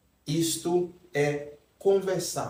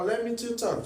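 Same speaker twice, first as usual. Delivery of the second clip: mock learner mistake; 6 semitones higher, 3 dB quieter than usual. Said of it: "quem não sabe ... falando".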